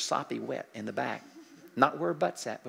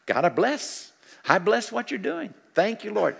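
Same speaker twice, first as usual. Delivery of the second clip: praying blessing; 6 semitones higher, 5 dB louder than usual. Shown as a demonstration. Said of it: "just keep doing it".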